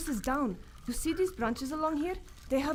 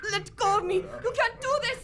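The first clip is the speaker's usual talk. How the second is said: struggling protest; 9 semitones higher than usual. Acted. Being seized.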